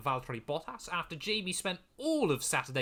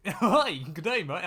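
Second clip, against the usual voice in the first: badly faked Canadian accent, louder; 3 semitones higher, 6 dB louder than usual. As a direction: attempt a Canadian accent and miss. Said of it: "I can't do a Canadian accent".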